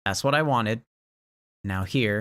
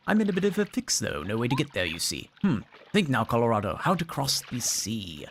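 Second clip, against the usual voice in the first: clipped wartime posh; 3 semitones higher than usual. Acted. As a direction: play a pompous old-school adventurer. Reads Colorado's game dialogue.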